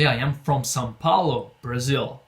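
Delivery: slow, clear model answer; slow example answer. Shown as a demonstration. Teacher models a student's possible answer slowly. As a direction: say it slowly for practice. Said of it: "Você pode responder".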